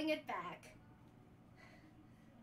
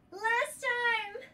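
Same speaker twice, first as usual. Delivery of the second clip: doing sit-ups; 7 semitones higher, 6 dB louder than usual. Real, not acted. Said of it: "my abs are burning".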